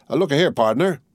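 a plain soldier puzzling over a death; wondering tattered soldier. Acted. Tattered soldier muses over the corpse, mildly puzzled.

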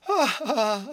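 high, loud spoken "ah, ah" laugh; acted laugh. A narrator's reading. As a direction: laugh it out in two mock bursts. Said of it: "She laughed".

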